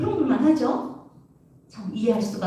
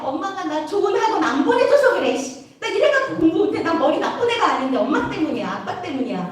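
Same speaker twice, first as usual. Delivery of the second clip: blaming others; 3 semitones higher than usual. Pretend. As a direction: imitate a student making excuses. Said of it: "남 탓하고 비난하나요".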